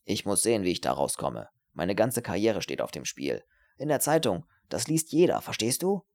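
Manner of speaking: anxious pleading with swooping pitch; worried man, low then rising insistently; agitated, self-pitying student. Acted. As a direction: press her to understand your ruin. Voices agitated Herbert.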